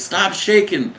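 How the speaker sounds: high-pitched imitation of a chief's command; hammed-up officer's command; mock stern order. Acted chief ordering recruit.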